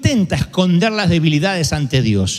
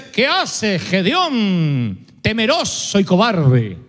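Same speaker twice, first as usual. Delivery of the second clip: scornful rebuke; much slower than usual. Pretend. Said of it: "lo que debió haberle dicho es".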